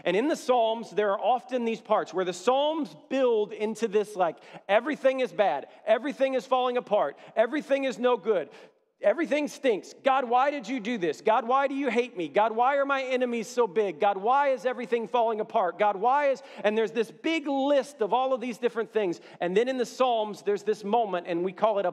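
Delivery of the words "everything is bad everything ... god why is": higher, pleading voice of a psalmist crying out; despairing psalmist. Retold or imitated. Pastor voicing the psalmist complaining to God, higher and pleading. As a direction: plead like everything is falling apart.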